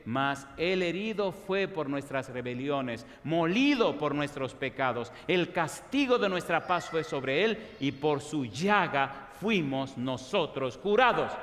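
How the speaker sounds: slow, deliberate reading of the verse; slow reverent Bible reading; solemn scripture reading. Acted. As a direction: read it as holy words, unhurried. Reads Isaiah passage slowly.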